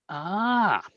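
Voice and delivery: high, drawn-out "ahh" falling away; acted sigh of recognition; long "ahh". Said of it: "he rolls up and he goes".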